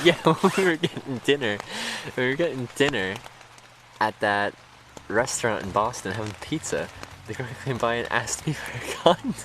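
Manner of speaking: bursting to tell the funny part; laughing recall. Real, not acted. Remembering the girl who asked for a condom, laughing.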